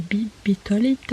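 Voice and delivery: bitolite with an extra syllable; bitlite mispronounced as bitolite. Shown as a demonstration. Vlogger showing she can't say bitlite, bitolite botched. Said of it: "je sais toujours pas dire bitlite".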